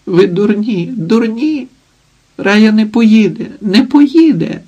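put-on crying little boy. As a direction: plead like a tearful little brother. Little brother cries out sobbing.

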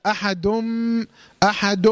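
احد as "ahadum" with the m pressed closed; lips fully shut. Shown as a demonstration. Teacher showing the closure to avoid in احد, m fully shut. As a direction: close the lips completely on the held m ending احد. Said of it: "ما بطبقش الشفتين اطباق ايه؟".

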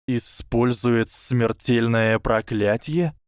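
disbelieving rising question; can't believe what he hears; incredulous. Acted. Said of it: "недоверчиво прошипел Гарри".

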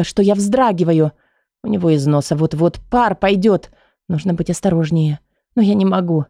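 usual speaking voice

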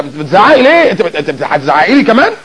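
lightly acted outraged husband; indignant husband. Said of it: "الراجل مننا يتجن من صوت المرأة العالي".

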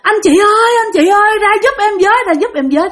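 high, insistent retold pleading; repeated calls for help. Girl knocking at a stranger's door, calling for help. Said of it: "nó cứ đứng nó kêu hoài".

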